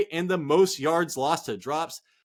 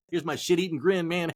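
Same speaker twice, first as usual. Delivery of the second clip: odd put-on voice. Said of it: "I don't know why I'm talking like this".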